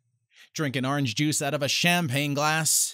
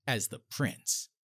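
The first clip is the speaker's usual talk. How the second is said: much lower, much softer, slow fade; fading dramatic finale; 9 semitones lower, 10 dB quieter than usual. Acted. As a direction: let the last words die away.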